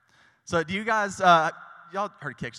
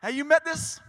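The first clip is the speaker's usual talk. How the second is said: much higher, louder call, stretching out awesome; excited promoter; 12 semitones higher, 9 dB louder than usual. Retold or imitated. Dad hyping his son's ice cream truck, much higher loud call. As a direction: shout the praise to passersby. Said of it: "And he's like".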